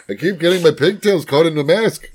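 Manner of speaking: put-on Yiddish accent. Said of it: "Where's this accent coming from?".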